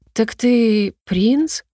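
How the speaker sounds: put-on slow, let-down child's question; a child drawing out his disappointment slowly; disappointed question. Boy learns his new friend is the prince, slow and disappointed. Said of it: "как-то расстроенно спросил Лирей".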